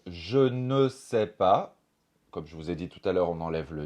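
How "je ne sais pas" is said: slow careful. Shown as a demonstration. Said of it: "Et pour dire".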